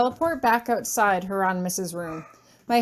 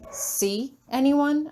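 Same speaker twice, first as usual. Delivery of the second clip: blank repeat; 4 semitones higher, much slower than usual. Acted. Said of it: "I repeat blankly".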